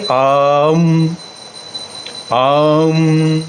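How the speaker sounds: आम with a short आ shut off quickly; clipped short aa. Shown as a demonstration. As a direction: say आम, cutting the आ short into the m. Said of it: "आप जैसे बोलेंगे आ".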